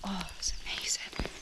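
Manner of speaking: breathy hushed awe; soft amazed whisper. Real, not acted. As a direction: whisper it in wonder. Awed hush in forest.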